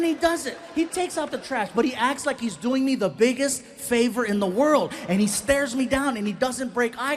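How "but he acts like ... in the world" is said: usual speaking voice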